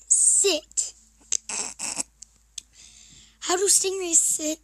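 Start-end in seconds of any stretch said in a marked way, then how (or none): 0.1-0.9 firm command. Pretend. Commanding pet stingray to sit.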